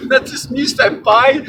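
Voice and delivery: high squealing anime fangirl; overacted anime dub. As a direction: beg for attention like an anime fan. Repeats fangirl line.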